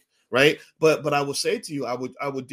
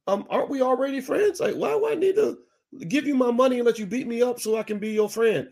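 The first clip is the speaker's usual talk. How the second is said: much higher, incredulous question; mock baffled; 8 semitones higher than usual. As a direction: sound truly baffled by the deal. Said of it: "I was like".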